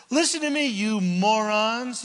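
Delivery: a mild acted yell at the crowd; shouted. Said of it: "he shouted".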